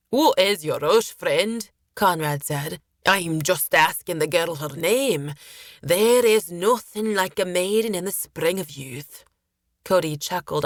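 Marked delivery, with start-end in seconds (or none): 0.1-1.7 lightly voiced sailor, louder on the opening; sailor character. Sailor rebuffing Cody's interruption, lightly in character. 3.1-9.2 lightly voiced lecherous sailor; leering sailor character. Sailor excusing his interest in the girl, lightly leering.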